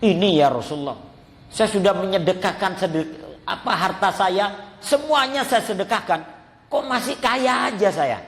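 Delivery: a rich man baffled he is still rich; lightly voiced worried companion, nervous chuckle; Abdurrahman fretting. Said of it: "Ditanya, "Kenapa engkau menangis".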